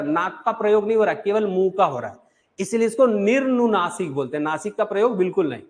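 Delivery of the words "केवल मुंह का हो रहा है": ordinary talk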